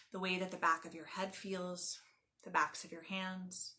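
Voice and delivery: calm, measured meditation guide with long pauses; guided meditation. Acted. Yoga teacher leading listeners lying on the ground, guided meditation. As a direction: guide them gently into stillness, phrase by phrase.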